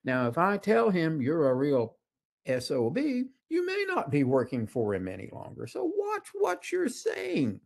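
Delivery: wife telling off the guide, a touch of sternness; mock indignant warning; mild retold scolding. Wife scolds the tour guide with mild indignation. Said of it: "and she said".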